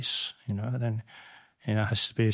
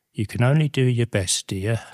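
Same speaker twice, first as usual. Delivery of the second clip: put-on a touch of an old Cockney landlady, a little louder; imitating the Cockney landlady; 2 semitones higher, 5 dB louder than usual. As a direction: lightly voice the frail old landlady reassuring him. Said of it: "like this".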